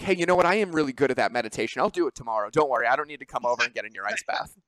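loud, fast, brushing it off; breezy fake confidence; mock excuse. Mocking people dodging ice baths.

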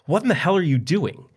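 high, loud panicked cry; screamed. A narrator's reading. Pinned husband screaming at his wife, loud and high. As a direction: yell it in pain and panic. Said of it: "He screamed and cried out".

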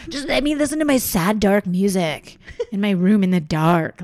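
mock moody teen. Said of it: "she's like".

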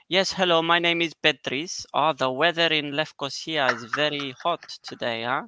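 a light imitation of an Indian accent; half-hearted Indian accent, call-centre greeting; mock Indian accent. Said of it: "an Indian accent going".

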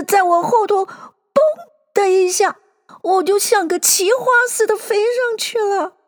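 high, small lizard voice; little squeaky voice. A narrator's reading. Bill telling how he flew up, squeaky. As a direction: squeak it out like a rattled little creature. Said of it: "一个很低的".

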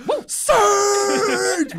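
high, loud whoop; kid's excited cheer. Retold or imitated. Recalling how a kid cheers for Surge, excited whoop. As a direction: whoop it like a sugar-rushed kid. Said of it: "you were just like".

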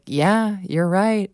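mock-earnest patient agreeing; performed agreement. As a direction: play along as if you care. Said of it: "I'm putting on a performance".

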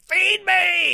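high, drawn-out mock yell; imitated off-camera shout. Imitating the mother shouting off camera, high drawn-out yell. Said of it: "the mother that's off camera that's shouting".

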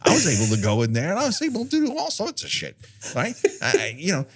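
lightly voiced old demon; a hint of a seasoned old guy. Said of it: "I'm that demon".

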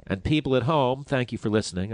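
stuffy nose, blocked sinuses; congested. Real, not acted. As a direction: talk through a congested nose. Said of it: "I feel like I'm congested".

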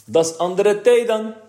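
boy mimicking the inspector while laughing; mock inspector, laughing. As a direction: shriek it out with laughter as the pompous inspector. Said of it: "gierde hij het uit en riep".

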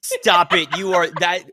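punchy repeated protest at a joke; playful protest. Real, not acted.

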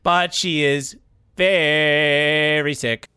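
slow, flat robot voice. Acted. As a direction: sad machine voice. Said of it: "Robot Tim".

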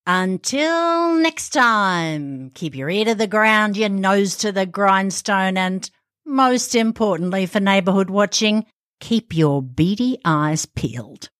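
slow, drawn-out opening, then measured delivery; scripted show sign-off. Pretend. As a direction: deliver a deliberate podcast outro.

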